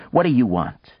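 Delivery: irritated question, lightly acted; a touch of testy impatience; snapped. A narrator's reading. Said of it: "he snapped".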